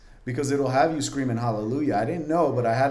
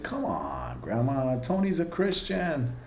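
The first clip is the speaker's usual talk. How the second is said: joking plea; 2 semitones higher, slower than usual. Retold or imitated. Grandson joking with a grandmother who wasn't having it, coaxing plea.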